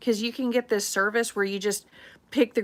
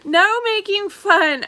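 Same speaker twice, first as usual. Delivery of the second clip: laughing protest, louder and higher; 10 semitones higher, 7 dB louder, slower than usual. Real, not acted. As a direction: laugh through a mock warning. Laughing at Andre teasing her.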